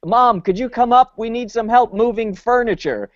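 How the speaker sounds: lightly acted call downstairs; mock yell downstairs. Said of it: "Mallory yells downstairs".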